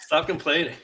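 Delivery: high, loud imitated rebuke; hammed-up annoyed castmate; mock scolding. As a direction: snap at her to quit whining, half laughing. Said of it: "He's like".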